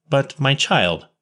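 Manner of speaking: slow, gentle and pitying; tender plea to a poor child; sympathetic. A narrator's reading. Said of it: "the deepest sympathy was manifested".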